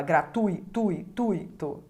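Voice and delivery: "Gratui, tui, tuito" said slowly, tui held as one syllable; slow demo of the diphthong in gratuito; syllables spelled out. Shown as a demonstration. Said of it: "na mesma sílaba".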